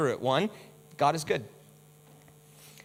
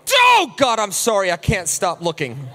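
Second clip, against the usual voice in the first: mock guilty disciple; 7 dB louder than usual. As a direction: wail it like a disciple who can't stop looking. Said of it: "was ever like".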